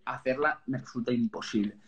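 ordinary delivery

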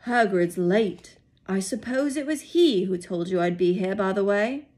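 put-on measured, amused old headmaster; a hint of a wise old wizard; Dumbledore voice. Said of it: "my Dumbledore voice".

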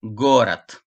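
"Gorat" with unstressed O as A and final T; O read as A. Shown as a demonstration. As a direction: say "Gorat" with an A in the last syllable, ending on a hard T. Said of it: "O'yu A olarak okuduk".

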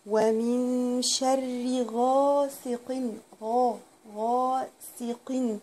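غاسق with the tanween pronounced clearly; clear nunation. Shown as a demonstration. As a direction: stretch غاسق and sound the n plainly. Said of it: "هنا ال-، التنوين هنا ده إظهار". (إظهار التنوين في غاسق)

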